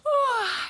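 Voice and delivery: high, loud yawn; waking yawn. A narrator's reading. Goldilocks woke up, big high yawn. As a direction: yawn it out while stretching. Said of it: "she yawned and she stretched".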